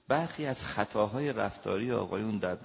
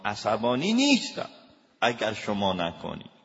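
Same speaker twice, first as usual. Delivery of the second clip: louder, testy denial of anger; irritated husband; 6 dB louder than usual. Retold or imitated. Husband still heated, telling his wife he is not angry. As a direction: snap back that you are not angry.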